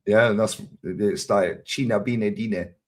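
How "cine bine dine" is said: slow, drawn-out mock Romanian phrase; imitated Romanian. Telling a friend what Romanians say, imitating their Romanian. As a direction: mimic Romanian speakers slipping into their language. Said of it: "slip back to Romanian real quick".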